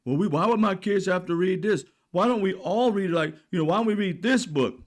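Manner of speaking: a hint of a clueless senator reading aloud; poking fun at Mullen's book reading, mock voice; mocking Mark Wayne Mullen. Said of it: "We heard him read".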